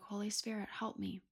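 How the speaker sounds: soft, inward plea under the breath; hushed inner prayer for help; very quiet prayer. Retold or imitated. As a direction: pray it quietly to yourself. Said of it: "very quietly".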